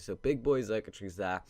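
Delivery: stuffy nose from a head cold; sniffling. Real, not acted. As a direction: talk through a sniffly cold. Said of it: "sorry about my sniffling. I've got a cold".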